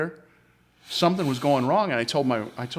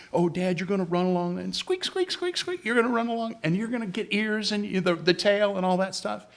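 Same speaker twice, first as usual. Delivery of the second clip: high, singsong mock of a kid teasing dad; squeaky mouse noises in a teasing child voice; teasing daughter; 8 semitones higher than usual. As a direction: tease dad like a giggling daughter. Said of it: "she's telling me".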